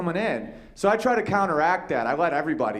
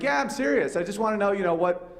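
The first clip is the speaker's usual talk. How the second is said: mock concern; 3 semitones higher than usual. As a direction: act like a caring therapist. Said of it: "I'm like".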